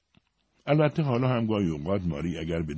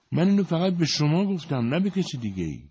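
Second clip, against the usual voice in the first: frightened protest; 11 semitones higher than usual. A narrator's reading. Marie, scared, protests to the priest with a frightened high voice. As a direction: insist nervously that you told only him. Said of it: "ماری که ترسیده بود".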